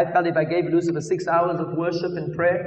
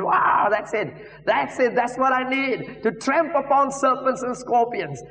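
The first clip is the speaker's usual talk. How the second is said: excited, pitched up toward the end; excited realisation; 5 semitones higher, slower than usual. Retold or imitated. Preacher retelling his discovery in the Bible, excited. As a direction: retell a thrilled discovery, slowing on the last words. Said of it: "then I got excited".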